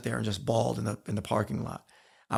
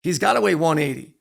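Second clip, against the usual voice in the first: higher, louder indignant inner voice; a small kid protesting, louder; incredulous kid; 4 semitones higher, 4 dB louder than usual. Retold or imitated. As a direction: kid thinking in disbelief about tackling. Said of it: "I remember thinking".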